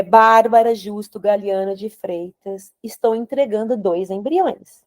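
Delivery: measured, slow formal handover; protocol announcement. Retold or imitated. Nurse handing over the embryos, protocol announcement. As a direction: state it slowly, like a set procedure. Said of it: "é protocolar".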